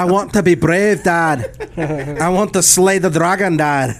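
put-on playful Scottish accent, laughing through it; a light Brave-style Scottish voice. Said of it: "do your Scottish accent".

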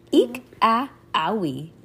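small, storybook mock shrieks; lightly acted yelps; mock screaming. A narrator's reading. Girls startled at the sleepover, mock screaming. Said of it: "The girls all screamed".

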